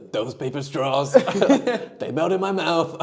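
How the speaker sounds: lightly voiced presidential parody, amused; Trump. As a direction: complain as a mock politician. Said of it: "his impressions".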